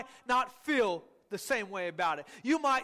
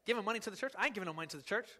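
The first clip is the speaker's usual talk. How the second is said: grumbling; 4 semitones lower, 6 dB quieter, much faster than usual. Retold or imitated. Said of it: "some of you emotionally said".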